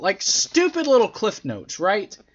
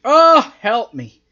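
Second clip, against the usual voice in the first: loud drawn-out groan of dismay; slow, weary exasperation; exasperated; 3 semitones higher, 6 dB louder, slower than usual. Real, not acted. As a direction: groan it out, fed up and pleading. Exasperated at next week's match.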